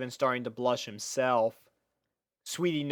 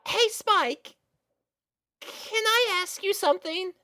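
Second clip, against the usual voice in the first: flustered little filly. Acted. Little sister confessing her crush to big sister, high and flustered. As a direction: blurt it out, flustered and young. Girl nervously asks.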